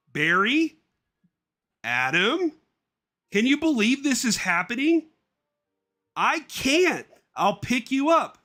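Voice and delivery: high, loud squeaky bee chatter; two thrilled bees on the phone, voiced high; excited cartoon bees.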